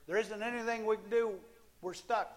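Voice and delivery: high despairing cry; despairing servant. Acted. Servant in the story giving up hope, high despairing cry. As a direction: plead that all is lost.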